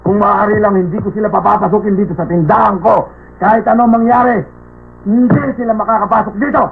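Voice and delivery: worked-up refusal, pitch climbing; indignant rant. Acted. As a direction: lay down the law against hated customers. Shopkeeper ranting about hated nobles.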